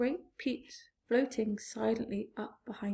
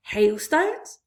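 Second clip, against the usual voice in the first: 1 scoffing; 8 dB louder than usual. A narrator's reading. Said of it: "the centipede said".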